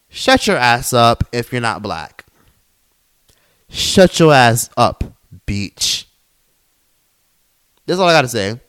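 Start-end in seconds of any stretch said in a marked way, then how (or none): 0.1-6.1 slow, deliberate put-down; scornful telling-off. Real, not acted. Podcaster telling non-black commenters off, scornful. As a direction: spell it out slowly with contempt.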